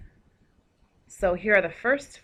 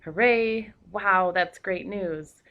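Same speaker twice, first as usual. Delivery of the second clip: excited exclamation; 5 dB louder, much slower than usual. Shown as a demonstration. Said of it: "shows strong feeling".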